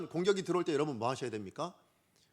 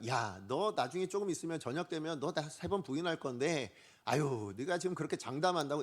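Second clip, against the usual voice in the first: softer, understated sneering doubt; mock sarcasm; 2 semitones lower, 4 dB quieter than usual. Preacher imagines Jesus mocking Peter's promise, mildly sarcastic. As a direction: lightly needle him for his big promise. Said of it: "이러면서 비아냥거리시는 걸까요?".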